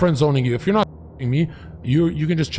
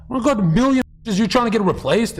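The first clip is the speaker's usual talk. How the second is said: mocking her, pitched way up and rushed; squeaky fast imitation of her indignation; high girl voice; 9 semitones higher than usual. Imitating the girl on the call, high and fast. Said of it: "And she goes".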